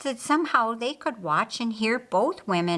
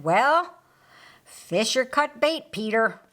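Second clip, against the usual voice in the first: raised, higher call over the shoulder; 4 semitones higher, 4 dB louder than usual. Acted. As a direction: call back while jogging away. John calling over shoulder.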